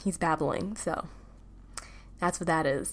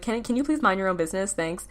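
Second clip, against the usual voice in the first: passive-aggressive. Retold or imitated. Telling freshmen to leave her alone, mildly passive-aggressive. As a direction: retell a politely prickly brush-off. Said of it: "kinda passive-aggressive".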